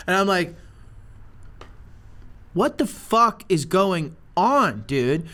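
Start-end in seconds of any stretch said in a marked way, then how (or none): 2.5-5.3 slow, spaced-out bafflement; bewildered disbelief. Retold or imitated. Storyteller to the laughing snake owner, stunned disbelief. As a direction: drag out each chunk, stunned.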